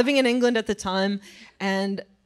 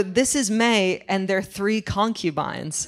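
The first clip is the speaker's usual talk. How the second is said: radio presenter voice; 2 semitones lower, slower than usual. Retold or imitated. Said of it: "radio presenter voice".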